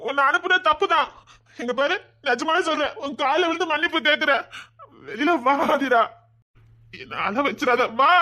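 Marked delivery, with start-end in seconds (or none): 5.1-8.1 tearful calling. Acted. Father searching for missing daughter.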